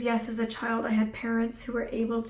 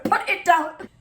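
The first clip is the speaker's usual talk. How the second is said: firm plea; 7 semitones higher, 6 dB louder, slower than usual. Retold or imitated. Repeating the plea.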